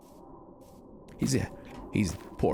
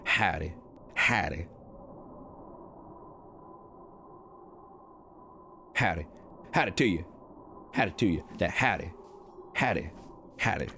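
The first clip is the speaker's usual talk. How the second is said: practising a Southern drawl on howdy; 4 dB quieter than usual. Pretend. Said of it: "trying to get, like, a real draw".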